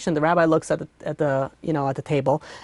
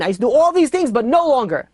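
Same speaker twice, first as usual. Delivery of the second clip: bitter outburst; 5 semitones higher, 3 dB louder, faster than usual. Acted. Patient to rabbi, a bitter louder outburst. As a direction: pitch jumps higher and louder on the lament. Patient pours out his lost faith.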